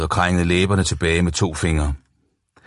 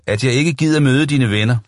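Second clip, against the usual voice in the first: råber over musikken; 6 semitones higher than usual. Acted. Gentager råbende over musikken.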